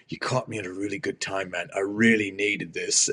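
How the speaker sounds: A singer. Retold or imitated. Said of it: "He's like".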